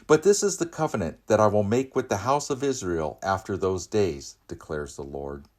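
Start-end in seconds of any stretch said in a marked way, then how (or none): 0.0-4.4 loud, high and fast proclamation; urgent ringing scripture reading; proclaiming scripture. Acted. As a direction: press the promise forward with urgency. God's words in the Jeremiah reading.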